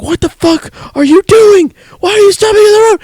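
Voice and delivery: high, loud furious yelling at the driver; shrieking road rage at a stopped Corvette. Retold or imitated. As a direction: scream at the car ahead in road rage. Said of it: "She gets really bad road rage".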